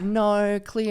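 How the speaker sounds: mimicking Brits doing Australian; mock Australian accent. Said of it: "People over here always do that".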